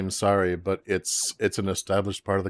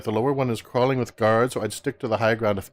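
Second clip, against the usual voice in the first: lightly voiced bossy Valley Girl; a hint of Valley Girl uptalk. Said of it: "established as a Valley Girl".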